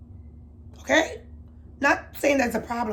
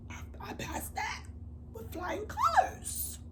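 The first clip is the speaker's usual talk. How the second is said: proud; 11 semitones higher, 9 dB quieter, slower than usual. Real, not acted. Proud of passing drug test.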